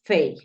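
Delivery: fey said like English "fay", gliding A; English syllable. Shown as a demonstration. Teacher modelling the syllable fey for students. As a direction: glide the vowel in fey. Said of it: "tú dices".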